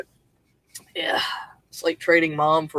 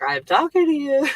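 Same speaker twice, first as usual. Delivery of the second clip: higher-pitched mock yell, imitating him; imitated yelling; 9 semitones higher, 4 dB louder than usual. Uncle answering a confused headset wearer, imitated yelling. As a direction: imitate a booming man who always sounds like yelling. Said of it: "it sounds like he's yelling".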